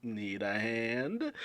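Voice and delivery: high, bright friendly call; cheery Marco. Retold or imitated. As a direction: sing out like the hero arriving. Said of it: "in comes Marco the Phoenix saying".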